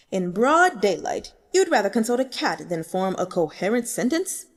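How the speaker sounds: loud, exasperated cat scolding. Acted. Da Qing scolds the intern who stares at him, loud exasperated cat voice. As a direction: snap at the dithering intern like an annoyed cat.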